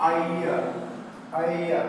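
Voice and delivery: আইয়া as one smooth a-i-a glide; triphthong demo. Shown as a demonstration. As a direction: blend আইয়া into one sound. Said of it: "যার উচ্চারণটা হবে". (ট্রিপথং আইয়া মসৃণ করে)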